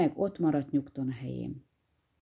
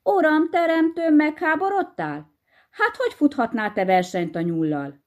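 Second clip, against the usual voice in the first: dismayed outcry; 11 semitones higher than usual. Acted. Wife hears her husband's wager, aghast and high. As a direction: throw up your hands in alarm. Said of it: "összecsapta a kezét megrökönyödésében".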